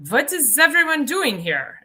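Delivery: lightly voiced German old man; German hiker voice. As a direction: call out cheerfully like a spry old hiker. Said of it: "And he goes".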